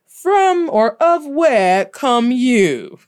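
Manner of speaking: slow, stiff, stilted robot English; mock literal translator. Mocking a bad word-for-word translator, slow and stiff. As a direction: read it word by word, awkward. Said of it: "looked up word for word and said".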